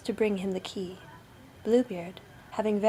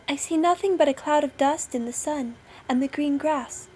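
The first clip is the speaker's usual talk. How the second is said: high, raised lookout voice; sister on lookout; 5 semitones higher, 5 dB louder than usual. A narrator's reading. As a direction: report down from the tower. Sister Anne's voice from the tower.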